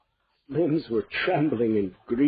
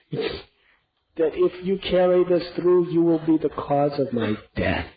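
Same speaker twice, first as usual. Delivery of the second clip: anguished plea; 5 semitones higher than usual. Acted. Fainted king to queen, anguished plea. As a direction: plead from the floor.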